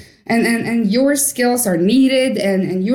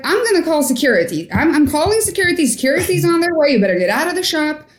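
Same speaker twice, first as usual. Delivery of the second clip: manager threatening security; 5 semitones higher, faster than usual. Retold or imitated.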